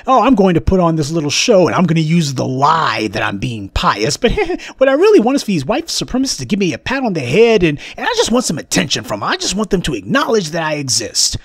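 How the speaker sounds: fast, giggly mock confession of a pious attention seeker; mock pious voice breaking into a fast laugh; mock pious whine. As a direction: parody a fake saint, rushing and laughing. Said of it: "trying to pretend as if you're".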